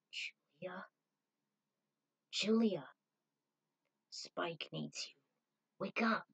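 hushed, gentle urging. Acted. Zero urges Julia to wake, hushed.

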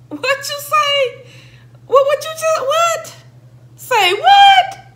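high, rising to a loud shout; shocked say what. Retold or imitated. Reenacting her own reaction for viewers, high incredulous shout. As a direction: play the stunned reaction big. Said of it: "my reactions was like that all day".

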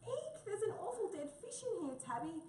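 very high, squeaky little mouse shriek. Acted. Mouse finds a dead fish in Tabby's pocket, high squeak. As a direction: squeal it like a startled tiny mouse.

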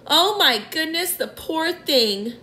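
high pitched, slowing on the poor thing; ladybird crying out in pity. A narrator's reading. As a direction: gasp out the pity, then soften. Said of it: "the ladybird cried".

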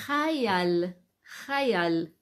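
teacher shows students how to say hayal, pronounced clearly; Hebrew word said for dictation. Shown as a demonstration. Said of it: "Se dice".

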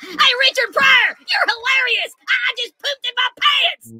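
high, loud, slow words through helpless laughter; laughing hard. Acted. Roast guest hollering praise at the comic, high laughing shout. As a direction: shout it while cracking up.

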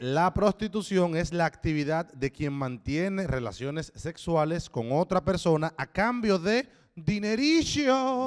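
slow, measured read-out; slow mock-official reading; deliberate definition reading. Real, not acted. Reads out a dictionary definition.

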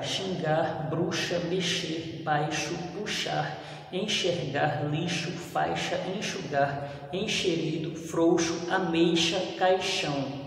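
"Xingar" opening with a full sh. Shown as a demonstration. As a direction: give "bruxa" and "caixão" a clear sh sound. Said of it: "mas com som de C H". (x com som de CH em "bruxa")

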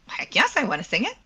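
bright, quick eager yes with a laugh. Retold or imitated. Told she can sing the role, answering with an eager laugh. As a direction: jump at the chance, laughing.

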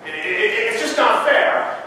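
sputtering "it's just not fair" wail; indignant outburst. Acted. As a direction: burst out like someone wronged. Preacher voices indignant complaint.

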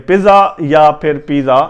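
پیزا as "pizza", then "peeza", plain z; short i, then long ee in پیزا; wrong pronunciations. Shown as a demonstration. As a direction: leave the t out of both پیزا. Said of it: "نہیں ہے".

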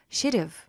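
should have blended fast into one; linked should have. Shown as a demonstration. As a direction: run should have together quickly. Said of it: "따로따로 하지 않고 빠르게 이어서".

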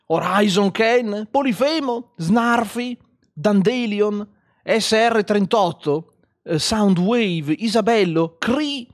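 loud, high announcer-like roll call; calling out names. Real, not acted. Streamer greeting new supporters, loud high calling out. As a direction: shout each name with gusto.

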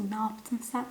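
hushed, breathless whisper. Retold or imitated. To her friend after the cigarette fell, a tense whisper. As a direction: whisper it so nobody downstairs hears. Scared girls hiding on stairs.

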